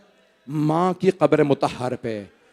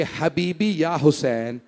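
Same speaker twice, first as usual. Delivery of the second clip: slow, lowered, imitated weeping tenderness; tearful endearments; 2 semitones lower, slower than usual. Grandfather embracing Hussain, voiced as slow tearful lament. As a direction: draw out each endearment as if weeping. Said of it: "और रो के कहने लगे".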